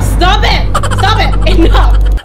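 high, loud, urgent protest; high startled yelling; startled outburst. Real, not acted. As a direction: cry out to make it stop. Startled outburst at jump scare.

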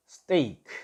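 "스테이크" as English steak, long ay and a light final k; "스테이크" said as an isolated teaching word; pronunciation demo. Shown as a demonstration. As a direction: model "스테이크" with the ay stretched. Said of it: "이렇게 했죠".

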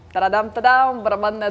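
loud playful fanfare; drumroll announcement. Acted. Host announcing guest with drumroll.

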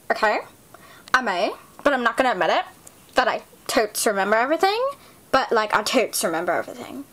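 put-on fast, careless valley girl. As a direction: rattle it off fast. Queen valley girl rapid.

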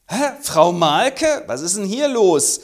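high, loud slow call from a window; mock indignant call. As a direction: shout down to the street. Woman calling from window.

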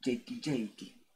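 put-on girls calling out. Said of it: "me decían gente en el colegio".

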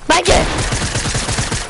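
slow, stretched, breathy cry of warning; drawn-out warning. Real, not acted. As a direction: drag the warning out in panic.

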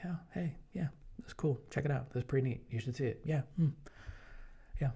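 soft, high, laid-back murmur; barely above a murmur, totally chill; soft-spoken Jeff. Retold or imitated. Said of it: "He never raised his voice above this".

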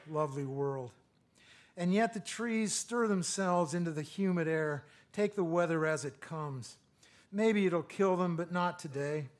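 measured, lyrical poem recital; a poet reading aloud to a live room; poetry reading. Acted. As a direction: read each line like it matters.

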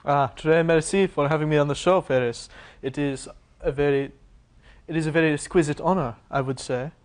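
hammed-up French host accent; a hint of a fake French guest; mock French accent. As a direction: put on a bad French accent, lightly. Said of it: "I really love the enunciation".

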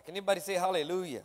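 rally the room for a response; preacher calling for a hallelujah; call to the church. Real, not acted.

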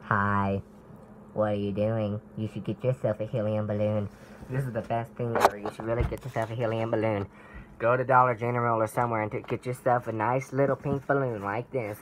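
squeaky helium sales pitch. Real, not acted. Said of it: "More helium".

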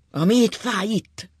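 anguished. A narrator's reading. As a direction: cry out where it hurts. Beating his chest.

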